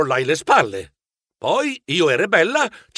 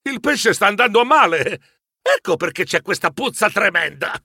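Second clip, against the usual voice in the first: exclaiming; 3 semitones higher than usual. Acted. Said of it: "Io esclamai".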